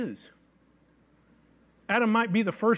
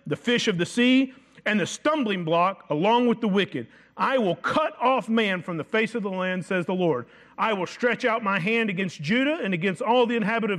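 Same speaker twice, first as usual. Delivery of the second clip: thundering prophecy reading; 3 semitones higher than usual. Acted. Preacher reading Zephaniah's judgment to the church, thundering. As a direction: proclaim the Lord's judgment with full force. Reads prophecy at full force.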